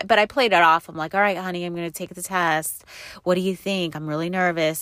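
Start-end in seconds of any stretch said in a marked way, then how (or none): none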